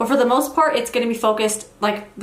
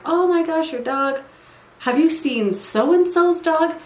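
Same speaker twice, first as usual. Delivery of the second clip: "Oh my gosh" pitched higher, as an eager neighbor; imitating gushing neighbor; 6 semitones higher, slower than usual. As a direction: play the chatty neighbor gushing over a dog. Neighbor's excited chatter about dogs.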